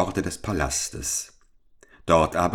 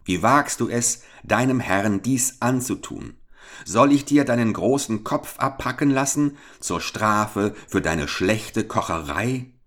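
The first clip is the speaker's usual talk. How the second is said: higher, furious scolding; angry duke; 5 semitones higher than usual. Acted. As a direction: threaten the cook with rising anger. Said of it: "rief er".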